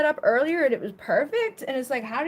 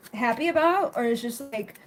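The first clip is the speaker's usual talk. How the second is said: usual speaking voice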